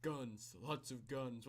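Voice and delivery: lightly done deadpan movie-star impression; half-hearted action-hero quote; understated, badly faked skater-guy drawl; Keanu Reeves. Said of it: "I can't do his voice".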